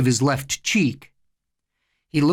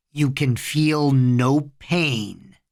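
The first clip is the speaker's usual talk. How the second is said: very slow, level hypnotic command; measured trance suggestion; hypnotist; much slower than usual. A narrator's reading. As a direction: draw each word out to put him under. Boy hypnotizes his little brother.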